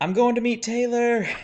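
put-on very high, shrill, hollered shout. Describing a cutscene of a man being dragged away, retelling a yell. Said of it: "he's yelling".

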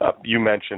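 plain

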